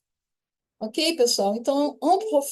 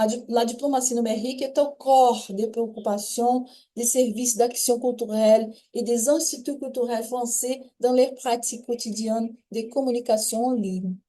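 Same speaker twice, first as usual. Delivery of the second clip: careful French reading voice; reading French text aloud. Shown as a demonstration. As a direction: read the French passage clearly to the class. (leitura em voz alta do texto francês)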